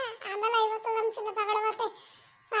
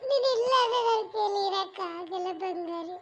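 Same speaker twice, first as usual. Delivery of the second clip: comic sobbing pleas, slow; hammed-up crying; slower than usual. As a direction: beg the absent girlfriend through mock tears. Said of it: "ನೀನ್ ಯಾಕೆ ಹಿಂಗ್ ಅಳ್ತಾ ಕೂತಿದ್ಯಾ?".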